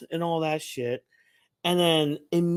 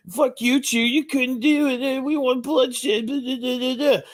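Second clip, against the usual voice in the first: jeering demons; 10 semitones higher than usual. Retold or imitated. Imitating demon spectators jeering at Chu. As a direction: heckle like a bloodthirsty crowd. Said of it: "They're all like".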